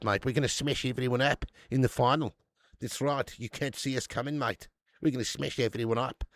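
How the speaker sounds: attempted South African accent that slips towards Aussie; badly faked South African, closer to Aussie; dodgy South African accent. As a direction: put on a cocky, shaky-quality South African accent. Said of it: "Need to work on your South African accent, mate".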